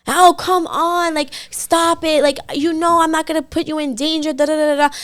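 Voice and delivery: high-pitched dismissive imitation; mock protest. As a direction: mimic his excuses, trailing into nonsense. Mimics his dismissive excuses.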